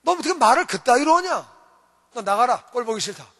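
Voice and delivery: angry scolding. Retold or imitated. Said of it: "대통령이 너무 기분 나쁜 거예요".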